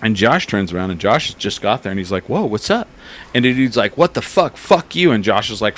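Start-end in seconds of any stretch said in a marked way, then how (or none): 2.3-2.9 much higher, surprised whoa; startled greeting. Retold or imitated. Josh bumped from behind. 4.0-5.1 mock angry swearing, much higher; retold cursing. Retold drunk cursing at Josh.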